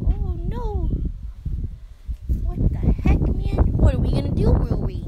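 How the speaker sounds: loud, high mock panic; excited alarm. Real, not acted. To the dog Rui, loud playful panic. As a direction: cry out in over-the-top alarm.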